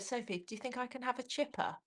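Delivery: lightly mimicked hopeful little question; imitated timid request. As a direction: quote mum asking very quietly. Imitating mum's tentative request.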